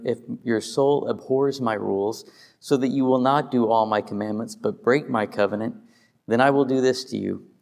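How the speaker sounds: steady, measured reading of God's promises; scripture reading. Acted. Pastor reads Leviticus aloud to the congregation, solemn. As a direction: read the blessings as solemn scripture.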